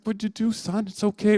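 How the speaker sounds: high-pitched, lightly acted reassurance; comforting dad. Dad rubbing crying son's back, gently comforting. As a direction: soothe an upset child. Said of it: "It's very comforting".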